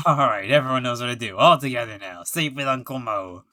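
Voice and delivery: loud clown calling to the crowd; rally the audience at full volume, easing at the end; rousing showman. Acted. Clown cueing the crowd for his catchphrase, loud and rousing.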